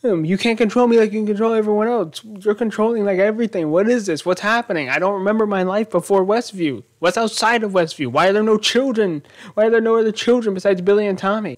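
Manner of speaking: half-acting an upset husband's rant; mock angry yell. Husband confronting his wife, retold as a mild mock yell. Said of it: "He's yelling at Wanda".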